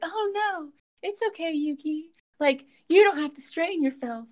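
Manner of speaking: high-pitched mock fussing; fussing admirers. Classmates telling Yuki not to strain himself, fussing. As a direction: imitate doting fans in a very high voice.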